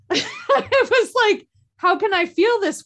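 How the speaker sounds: high, slow laughter into the question; incredulous chuckle at herself; laughing disbelief. Real, not acted. Laughing at her past self.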